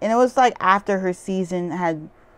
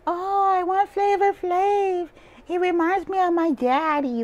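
mocking Picasso; 10 semitones higher than usual. Mocking contestant Picasso's crush on a rapper, high swooning voice. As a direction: gush like a starstruck fan, mocking. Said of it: "she was like".

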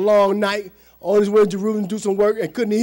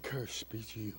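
low, hushed curse; Jesus pronouncing a curse; 7 semitones lower, 14 dB quieter than usual. Retold or imitated. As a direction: pronounce judgment softly and very low. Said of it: "And he said".

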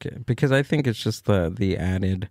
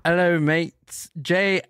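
British accent; 7 semitones higher than usual. Shown as a demonstration. Host thanking guests in a demo, high British accent. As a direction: put on a dodgy British accent. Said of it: "British accent for me".

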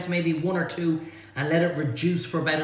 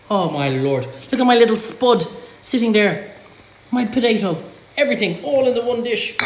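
louder, gushing over the spud; proud and thrilled, louder; delighted; 3 semitones higher, 7 dB louder than usual. Real, not acted. Cook gushing to viewers over his potato, louder.

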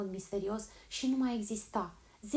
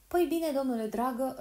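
eyebrows raised; 5 semitones higher, 7 dB louder than usual. A narrator's reading. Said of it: "ridicându-și sprâncenele".

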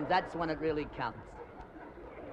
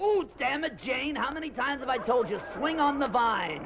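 annoyed Tarzan; 5 semitones higher than usual. Acted. Tarzan scolds Jane.

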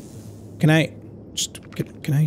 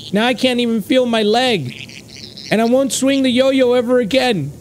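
sad caterpillar voice; 6 semitones higher than usual. Acted.

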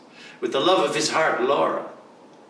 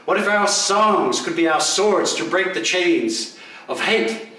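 rallying plea; 4 semitones higher than usual. Acted. Rallying the doubter to sing.

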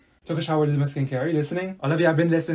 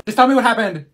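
louder, higher, fed up; impatient demand; 6 semitones higher, 8 dB louder than usual. Acted. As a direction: push her to get to it. Impatient friend demands the point.

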